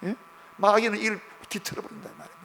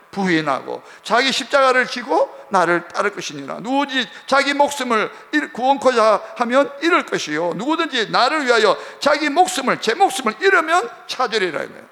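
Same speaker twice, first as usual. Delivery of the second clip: loud, raised-pitch Bible reading; forceful scripture declamation; 5 semitones higher, 6 dB louder than usual. Real, not acted. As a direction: proclaim the verse to the congregation, building higher.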